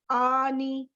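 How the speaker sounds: آنی drawn out, both long vowels held; demonstrating the sound. Shown as a demonstration. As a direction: say آنی slowly as a model sound, "aa-nee". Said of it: "آنی کی sound".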